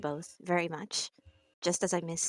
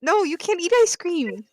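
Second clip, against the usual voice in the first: alarmed shout; 10 semitones higher, 9 dB louder, slower than usual. Acted. Player protests friend eating ice cream.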